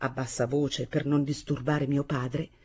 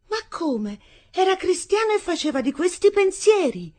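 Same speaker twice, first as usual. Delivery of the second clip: put-on shy young bride; 14 semitones higher, 5 dB louder than usual. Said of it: "Ella disse, incrociando le due mani".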